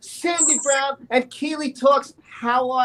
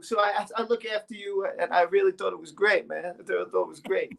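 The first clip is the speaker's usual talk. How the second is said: slightly lowered voice as Gary; Gary impression; 3 semitones lower than usual. Singer admires the host's look, light Gary impression. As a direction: play the admiring sidekick in a lightly put-on voice. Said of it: "You pretending to be me".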